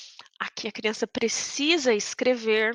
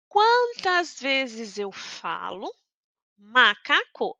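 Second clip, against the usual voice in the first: slow syllable count; much slower than usual. Shown as a demonstration. Teacher counting syllables slowly.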